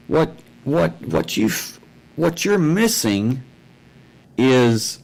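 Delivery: high, sputtering disbelief; exasperated retort. Retold or imitated. Telling off a man for accusing a stranger, high and sputtering. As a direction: blurt it out in stunned exasperation.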